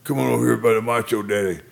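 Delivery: lightly voiced wrestler come-on; Randy. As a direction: playfully call her over, pitched a bit up. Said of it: "so Randy says to her".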